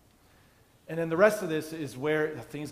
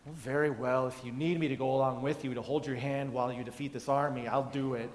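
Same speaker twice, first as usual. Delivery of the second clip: a touch of weary, put-upon "very well"; mildly dismissive, as if humoring a coward; grudging condescension. Retold or imitated. Deborah mildly dismissive of a fearful Barak. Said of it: "it's almost like this, uh, pathetic sort of Barak thing".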